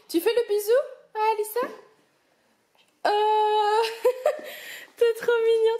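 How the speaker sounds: high, loud, drawn-out cooing to the little ones. Real, not acted. Cooing to her children. (voix aiguë et attendrie de maman qui s'extasie)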